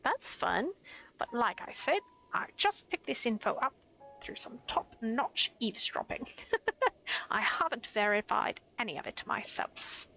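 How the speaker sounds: a hint of a gossiping eavesdropper character; NPC voice. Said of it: "Just trying to give him some kind of voice".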